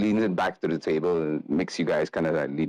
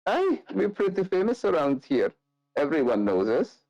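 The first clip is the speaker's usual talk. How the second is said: higher, proud brag; boastful rogue; 8 semitones higher than usual. Acted. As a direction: show off their fame. Nikolai boasts.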